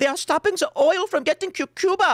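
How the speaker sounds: put-on very high-pitched German accent. Quoting Greta Thunberg after Cuba gets sanctioned: German-accented Greta Thunberg impression. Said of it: "It's a German accent".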